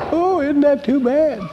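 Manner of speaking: high, sarcastic pity; mock sympathy. Preacher mocking self-pitying listeners, sarcastic sympathy. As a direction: poke fun at self-pity.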